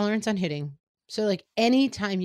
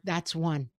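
neutral and calm; 2 semitones lower than usual. Retold or imitated. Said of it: "keep it neutral and calm".

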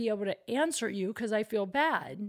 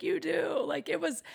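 retold surprise; 8 semitones higher than usual. Retold friend's reaction.

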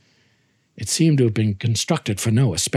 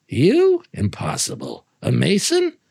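incredulous; 3 semitones higher than usual. Acted. Fortunato disbelieves he's a Mason.

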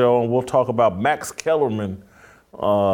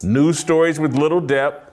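steady scripted read; commentary read; 3 semitones higher than usual. Acted. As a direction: read it like an opinion segment. Scripted monologue over music.

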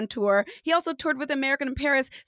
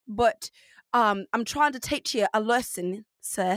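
halting, botched British; bad British accent; 3 semitones lower than usual. Shown as a demonstration. Performer pretending to teach the guest, clumsy British accent. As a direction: lecture them in a badly faked British accent. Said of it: "I could do royal British or Cockney".

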